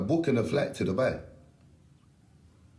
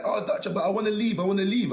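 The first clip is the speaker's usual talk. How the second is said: mocking whiny girl; 9 semitones higher than usual. Mocking girl begging to leave.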